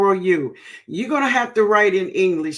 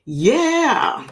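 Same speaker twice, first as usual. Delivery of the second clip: laughing; 5 semitones higher, 4 dB louder than usual. Real, not acted. Reacting to the chat with a laugh.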